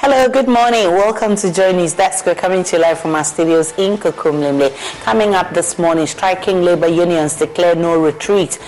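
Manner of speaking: bright news host opening; upbeat radio headline read; morning show host. Acted.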